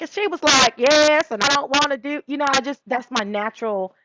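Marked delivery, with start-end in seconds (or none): 0.0-2.2 higher, lightly put-on; parody voice. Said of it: "I'm like".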